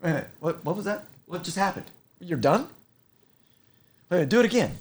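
amazed firefighter. Retold or imitated. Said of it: "they're like".

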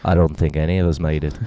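put-on quick English accent; fast dry English accent quip. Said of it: "English accent".

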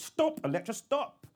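high, loud panicked yell; shouted stop. Acted. Woman yelling at the kitchen assistant, high panicked shout. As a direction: scream it at the machine to make it quit.

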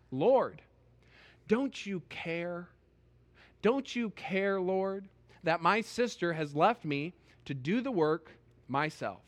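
a touch of indignant complaint, slow on don't you care. Retold or imitated. Martha complaining to Jesus about her sister, mildly indignant. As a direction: press the grievance, mildly hurt. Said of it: "You can almost hear the indignation in Martha's voice".

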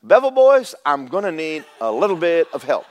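put-on a bright call for the Bevel boys; calling for help. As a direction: shout across the room for help. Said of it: "I would have to say".

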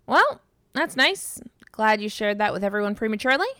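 sarcastic. Acted. Sarcastic reply to co-host.

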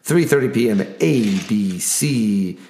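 booming sports announcer voice, drawn out. Acted. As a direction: hype each matchup like a ring announcer. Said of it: "my announcer voice".

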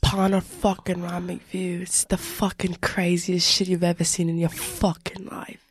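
put-on Australian croc-hunter accent, hyping it up; lightly hammed-up Australian accent. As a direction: do a playful Aussie wildlife-host accent. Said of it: "I'm an accent bursterer".

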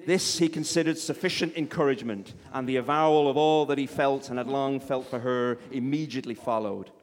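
lightly put-on American accent for narration; vaguely American. Reading Austen to a live audience, vaguely American accent. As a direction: read it out in a rough American accent. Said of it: "vaguely American voice".

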